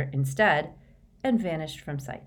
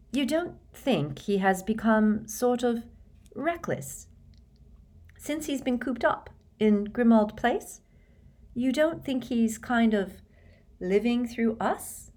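hesitant, higher voice with gaps between phrases; very careful wording; 7 semitones higher than usual. A narrator's reading. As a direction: tread delicately, groping for each word. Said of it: "choosing her words very carefully".

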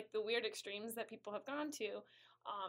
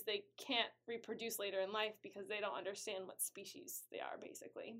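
tipsy and loose, with a laugh; 3 semitones lower, 6 dB quieter than usual. Real, not acted. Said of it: "That's my drunk way of explaining".

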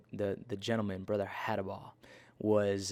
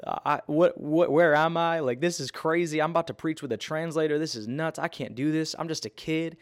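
higher-pitched retold freak-out; mock tearful panic; 4 semitones higher, 4 dB louder than usual. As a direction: act out a kid panicking, pitch raised. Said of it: "and I'm crying. I'm like".

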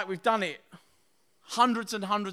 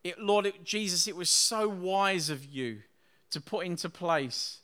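prayer; 2 semitones lower than usual. Acted. Pastor praying over communion with his church, reverent prayer.

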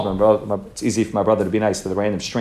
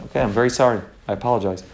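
calm apology; 2 semitones lower, 5 dB quieter, faster than usual. Retold or imitated. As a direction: apologize quietly without arguing back. Brother calmly apologizes to angry driver.

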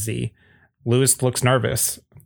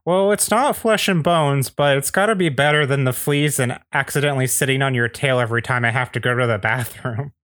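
character voice; 4 semitones higher than usual. Acted. Character line quoted in narration.

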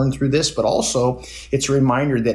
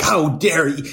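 mock indignation; 5 semitones higher, slower than usual. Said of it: "going off like".

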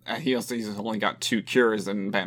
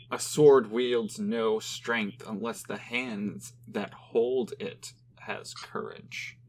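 dramatic quote reading; much slower than usual. Shown as a demonstration.

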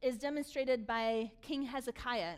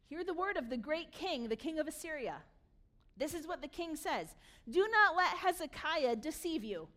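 raised proclamation from scripture; calling out; 3 semitones higher, 4 dB louder than usual. Acted. Assyrian commander calling to Jerusalem's people, proclaiming. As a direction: proclaim it to the crowd, building louder. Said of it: "the commander stood and called out".

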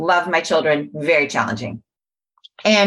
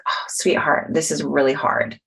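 tender self-compassion; 3 semitones lower than usual. Retold or imitated. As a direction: soothe yourself like a hurt child. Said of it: "a moment of compassion where I was like".

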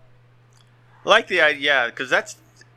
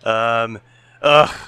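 Donald Trump; 4 dB louder than usual. Pretend. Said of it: "as an impression".

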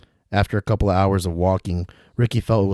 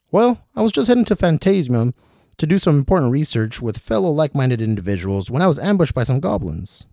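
put-on dangling old traveler; 7 semitones higher, 3 dB louder than usual. William calling to Ricky from upside down, high and fussy. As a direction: call down politely from the rope.

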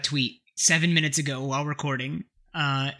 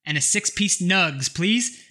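loud order; 3 semitones higher than usual. Retold or imitated. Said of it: "very loudly into the speaker said".

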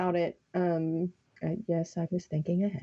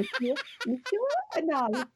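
higher, laughing mock-French voice; fake French accent; 6 semitones higher than usual. Co-host teasing friend as Monsieur, fake French accent. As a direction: tease with a hammy French accent. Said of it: "Does it sound nicer in my fake French accent?".

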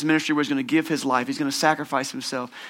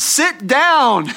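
annoyed shush; 9 semitones higher, 5 dB louder than usual. Retold or imitated. Annoyed graduation crowd.

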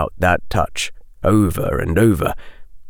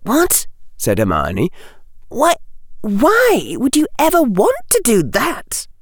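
put-on high, startled girl's voice; shocked disbelief from a schoolgirl; lightly voiced girl, aghast; young girl Hermione. A narrator's reading.

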